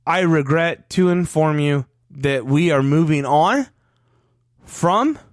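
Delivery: stiff read off a cue card; stilted formal reading; mock owner statement. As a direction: parody a wooden press announcement. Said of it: "That's how he sounded".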